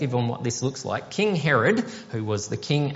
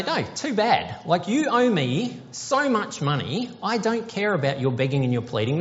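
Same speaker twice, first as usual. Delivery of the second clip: harsh king; 4 semitones higher than usual. Pretend. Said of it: "If he was a harsh king".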